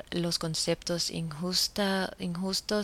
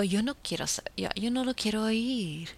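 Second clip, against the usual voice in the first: retold firm refusal. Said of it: "y yo digo".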